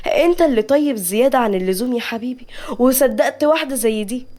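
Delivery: lightly staged sadness; feigned sorrow. Acted. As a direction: pretend to grieve for him. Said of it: "نجوى بحزن تمثيلي".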